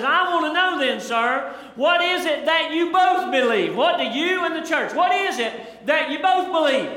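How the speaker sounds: frustrated preacher pressing a stubborn miner; pinning him down. Acted. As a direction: cut to the chase, pin him down. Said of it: "I'll cut to the chase and I'll pin him down".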